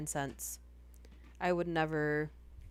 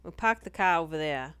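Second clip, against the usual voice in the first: Boston accent; 6 dB louder than usual. Shown as a demonstration. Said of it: "I wanna do a video with this just Boston accent".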